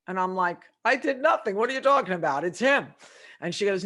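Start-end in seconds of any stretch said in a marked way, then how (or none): 0.8-2.9 indignant denial. Retold or imitated. Defending herself to the boss.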